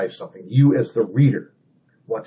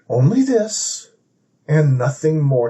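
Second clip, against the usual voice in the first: self-comforting; 2 semitones higher than usual. Shown as a demonstration. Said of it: "treating himself like a child".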